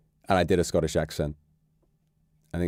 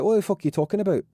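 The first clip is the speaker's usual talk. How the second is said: mock baffled outrage; 10 semitones higher, faster than usual. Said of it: "I'd be like".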